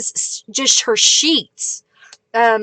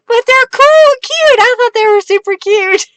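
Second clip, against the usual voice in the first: high excited defense; 9 semitones higher than usual. Real, not acted. Defending the kit, laughing.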